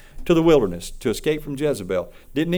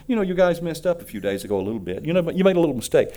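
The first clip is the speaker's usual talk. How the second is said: soft-pedaled apology; 3 semitones higher, faster than usual. Pretend. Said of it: "He doesn't say".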